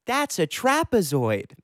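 a hint of a proud little kid answering; silly eight-year-old. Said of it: "silly eight-year-old me goes".

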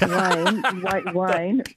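laughing through his name; chuckling while calling Wayne. Real, not acted. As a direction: giggle as you call out to him. Caller laughing at her own joke.

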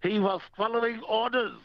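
put-on high-pitched joke German accent; mock German accent. Caller tells host a swan joke, mock German accent. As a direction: deliver the punchline in a put-on German voice.

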